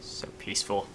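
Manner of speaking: soft whispered so peaceful. Pretend. Gamer sailing calmly, whispering to viewers. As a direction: breathe it out as a whisper.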